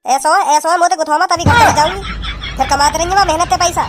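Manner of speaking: angry wife. Acted. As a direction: snap back at the husband. Wife quarrels, threatens to leave.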